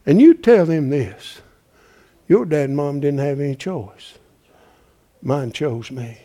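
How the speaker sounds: tender mother. Retold or imitated. Mother comforts adopted son in story.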